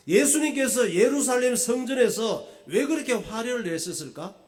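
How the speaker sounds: high, loud rhetorical question; full-force preaching. Real, not acted. Pastor asking why Jesus raged in the temple, forceful preaching. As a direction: throw the question out loudly to the congregation.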